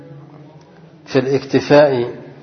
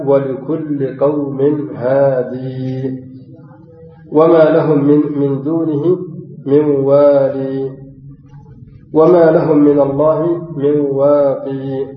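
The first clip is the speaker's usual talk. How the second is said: slow chanted recitation, each verse end held; Quran recitation; slower than usual. Acted. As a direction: recite slowly as tajwid chant. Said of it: "من قوله تعالى".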